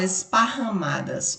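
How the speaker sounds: "esparramadas" with the RR clearly sounded; RR sound demonstrated. Shown as a demonstration. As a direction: bring out the single RR sound in "esparramadas". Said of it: "o som desse R R". ("esparramadas" destacando o som do RR)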